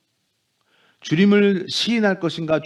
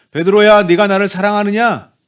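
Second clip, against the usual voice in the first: louder pleading call; 2 semitones higher, 6 dB louder than usual. Acted. Jesus asking Peter again, urging louder. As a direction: raise the voice and press the question. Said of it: "이렇게 말씀하세요".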